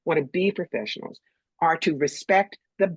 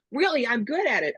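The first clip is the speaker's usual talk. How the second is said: pushy rookie; 8 semitones higher than usual. Retold or imitated. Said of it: "she comes over and says".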